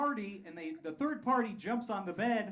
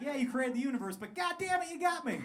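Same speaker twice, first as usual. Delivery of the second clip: mock fooled God; 6 semitones higher than usual. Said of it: "It's like".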